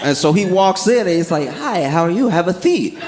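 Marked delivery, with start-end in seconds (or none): 1.5-3.0 polite greeting with a lisp, "seat" as "theat"; lisping dentist. Retold or imitated. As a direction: lisp the s sounds, friendly. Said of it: "it's making him lisp".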